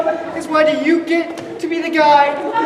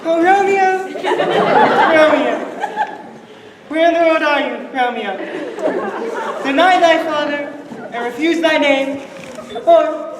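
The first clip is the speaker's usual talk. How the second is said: mock Juliet. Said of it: "Juliet's lines performed".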